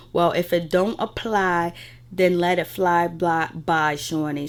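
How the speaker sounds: slow, deliberate retold dig; drawn-out retort. Recapping Malaysia's confessional to viewers, slow and deliberate. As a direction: stretch the words out for effect. Retelling a cast member's pointed confessional line.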